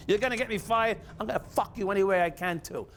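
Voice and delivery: loud, high, fierce defiance; defiant anger. Real, not acted. Telling the cop who tried to fire him, fiercely. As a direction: spit it out like a threat.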